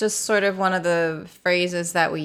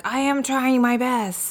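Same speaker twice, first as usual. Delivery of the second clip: earnest striving; 5 semitones higher, slower than usual. Retold or imitated. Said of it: "that whole attitude of".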